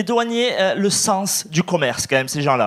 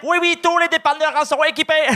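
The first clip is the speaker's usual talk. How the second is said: high-pitched mock Asian accent in French; caricatured Asian-accented shopkeeper; 9 semitones higher than usual. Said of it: "avec un accent asiatique".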